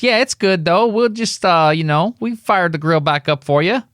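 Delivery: a friendly diner lady's New York accent, hammed up a bit; New York accent attempt. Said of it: "This is me trying to do a New York accent".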